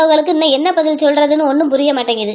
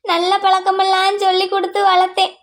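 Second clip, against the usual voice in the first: higher, weeping repeat of the same plea; crying lament; 4 semitones higher than usual. Acted. Mother repeating her defence while weeping, tearful. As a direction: say it again, more broken by tears. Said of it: "நீ முதல்ல அழுகிறத நிறுத்துமா".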